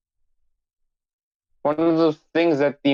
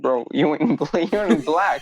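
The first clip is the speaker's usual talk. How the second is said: laughing; slower than usual. Retold or imitated. Laughing retelling to South African.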